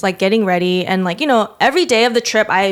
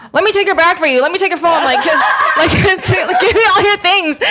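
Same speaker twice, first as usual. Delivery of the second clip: higher, laughing through the brother's eager lines; brother's eager offer, retold through laughter; laughing imitation; 8 semitones higher than usual. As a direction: giggle while mimicking the brother. Brother grabbing her things, laughing.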